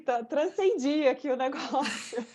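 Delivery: lightly hammed-up amazement; awed self-quote. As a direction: gush it with amused awe, pitch lifted.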